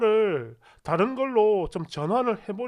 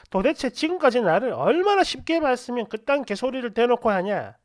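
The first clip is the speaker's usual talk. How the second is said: angry sarcastic tirade. Retold or imitated. Angry breakup message acted out.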